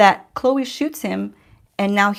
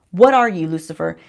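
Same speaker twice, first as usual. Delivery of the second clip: louder, insistent mock demand; retold shocked demand; 6 dB louder than usual. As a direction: act out confronting him, punching the question. Acted shocked confrontation of Lucifer.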